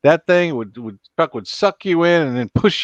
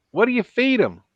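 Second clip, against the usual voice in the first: wide-mouthed frog; 10 semitones higher than usual. Acted. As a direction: stretch every word like a big-mouthed frog. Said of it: "wide-mouthed frog".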